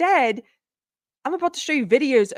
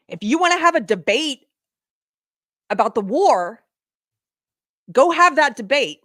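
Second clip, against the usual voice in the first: upset; 3 semitones higher, 5 dB louder than usual. Real, not acted. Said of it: "I'm getting a little upset".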